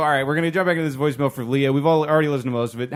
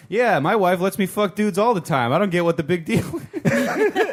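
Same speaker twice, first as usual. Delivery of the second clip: higher, drawn-out mock caller; imitated nonchalant boast; 5 semitones higher, slower than usual. Host retelling the guy's Facebook comment, mock-casual boast. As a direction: brag casually in a raised mimicking voice. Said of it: "He's like".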